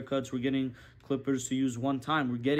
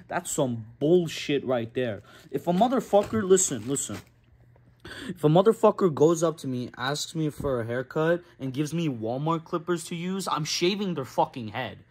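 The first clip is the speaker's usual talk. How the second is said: angry rant; 6 dB louder than usual. Real, not acted. Barber ranting to camera about cheap clippers, loud outrage. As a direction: blow up at the idea of cheap clippers. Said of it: "Had to go on that little rant".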